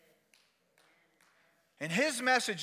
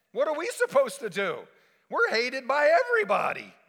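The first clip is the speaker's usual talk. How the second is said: exasperated complaint; 5 semitones higher than usual. Acted. Tax collectors' complaint, acted out.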